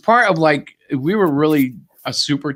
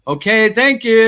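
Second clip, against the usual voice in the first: polite; 9 semitones higher, 6 dB louder, slower than usual. Retold or imitated. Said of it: "And it's like".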